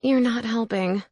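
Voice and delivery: muffled voice from under a blanket; muffled under covers. Acted. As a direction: speak through the bedcovers, muffled. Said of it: "my muffled voice said".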